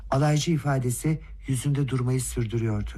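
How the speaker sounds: ordinary delivery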